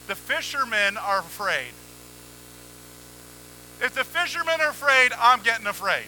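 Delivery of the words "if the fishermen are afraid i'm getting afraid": louder, higher emphatic line; emphatic punch. Real, not acted. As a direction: hit it hard to make the point. Emphatic fear point.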